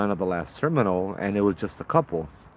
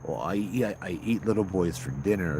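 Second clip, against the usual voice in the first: creepy quiet stranger; 3 dB quieter than usual. Retold or imitated. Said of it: "strange and inappropriate like that".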